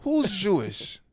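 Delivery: high, loud puzzled question; the baffled wife, pitched high and loud; wife asking her husband, high and loud; confused wife. Retold or imitated. Wife's confused reply.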